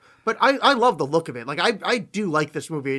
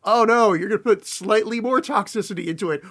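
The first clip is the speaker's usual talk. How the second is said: sarcastic fake dismay; mock alarm; 3 semitones higher than usual. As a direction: scoff at it with mock concern. Mocking the villain's supposedly evil plan.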